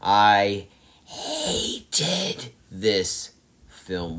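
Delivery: very slow, crying-tinged, pained delivery; half-joking anguished whimper; mock anguish. Real, not acted. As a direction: moan it as if the film wounded you. Hating the film.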